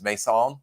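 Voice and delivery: Mason said as "may-SAHN"; French-style pronunciation. Shown as a demonstration. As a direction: end Mason on an open "sahn". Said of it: "ask him if his name is".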